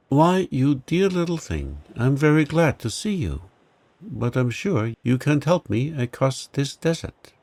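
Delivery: a hint of a sweet young girl talking to a pet; girl's voice, tender then unsure; Rosie, fond little girl. Rosie greets the mouse.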